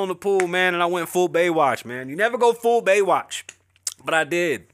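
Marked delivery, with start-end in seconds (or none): 2.1-3.4 lightly voiced movie-line quote; quoting a movie. Comic retelling a pool rescue, light movie-quote voice. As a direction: toss off a famous movie line.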